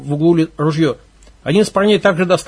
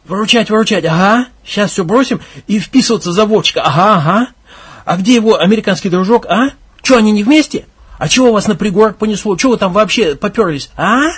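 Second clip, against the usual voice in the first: sneering scorn; 3 semitones higher, 3 dB louder than usual. Acted. Leader sneers at request.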